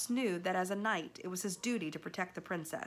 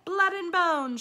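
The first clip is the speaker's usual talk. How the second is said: shrill, much higher, loud cry; shouting rat; 12 semitones higher, 11 dB louder, slower than usual. A narrator's reading. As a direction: screech like a starving rat. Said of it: "shouted another".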